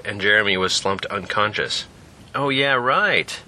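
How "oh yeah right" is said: slow, sarcastic echo; mocking. The speaker mocking Jack's forgetfulness, slow and sarcastic. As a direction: drag it out to mock him. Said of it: "he mocked".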